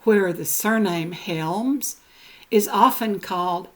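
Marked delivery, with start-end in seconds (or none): none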